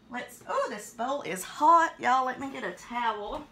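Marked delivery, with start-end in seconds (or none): 0.1-1.9 surprised. Real, not acted. Touches hot bowl.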